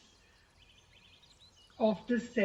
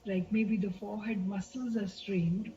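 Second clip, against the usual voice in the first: gentle guiding delivery with long pauses; guided meditation; 6 dB quieter than usual. Real, not acted. Teacher guiding listeners to relax as they focus on breath and body, meditative. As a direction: lead listeners unhurriedly into relaxation, leaving space between phrases.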